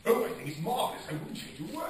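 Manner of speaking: high, gushing, a touch loud; mock gushing. Retelling the producer's delight, high gushing. Retold reaction, high pitched.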